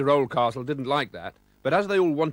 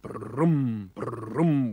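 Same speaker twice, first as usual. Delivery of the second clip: happy engine hum. A narrator's reading. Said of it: "Even Gumdrop sounded happy".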